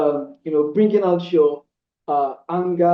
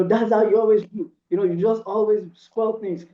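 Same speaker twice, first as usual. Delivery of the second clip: mock shouting; 4 semitones higher than usual. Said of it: "shouting and saying".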